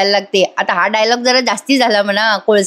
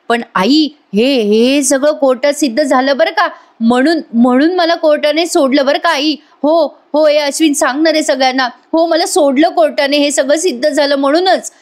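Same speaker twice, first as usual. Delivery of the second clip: higher, insistent put-on pleading; fake pleading; 5 semitones higher than usual. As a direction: overplay the innocence. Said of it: "Priya नाटकी नाटकी". (नाटकी आवाजात स्वतःची बाजू मांडणे)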